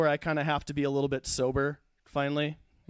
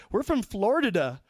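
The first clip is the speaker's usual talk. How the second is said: mocking Southern accent, pitched up; swampy Southern accent; 5 semitones higher than usual. Couple saying where they live, swampy Southern accent. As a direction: garble Florida in a Southern twang. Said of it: "they had, like, a swampy southern accent".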